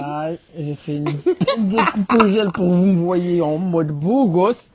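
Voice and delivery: laughing show-off. Real, not acted. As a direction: laugh through it, stretching the words. Laughing, slow show-off line.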